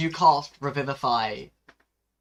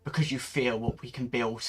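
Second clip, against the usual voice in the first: tearful goodbye. Acted. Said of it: "I can't do a crying voice after this".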